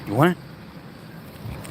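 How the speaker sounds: drawn-out whisper, very slow; teasing whisper. Real, not acted. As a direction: tease him with a slow secret whisper. Teasing the dog with ball.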